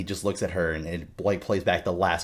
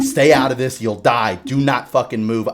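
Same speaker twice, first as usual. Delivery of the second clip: mildly raised, urgent warning; imitating someone yelling orders; retold yelling; 3 semitones higher, 6 dB louder than usual. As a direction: bark it out like a half-voiced retold order. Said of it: "he kept yelling at him".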